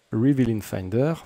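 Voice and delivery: "Reveal in Finder" in a heavy French accent, like "rivil in faindeur"; English with a thick French accent. Shown as a demonstration. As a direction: say it the French way, mock proud of his English accent. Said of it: "avec mon bel accent anglais".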